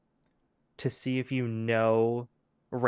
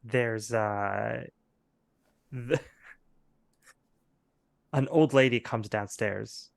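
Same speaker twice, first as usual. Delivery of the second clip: usual speaking voice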